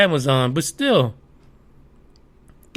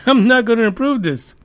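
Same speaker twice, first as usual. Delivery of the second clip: mock furious Bernie; 5 semitones higher than usual. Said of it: "He says".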